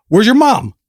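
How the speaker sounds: high sing-song pet voice; talking to a dog. Retold or imitated. Neighbor cooing at a stray dog, high pitched. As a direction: coo like talking to a puppy. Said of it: "And he goes".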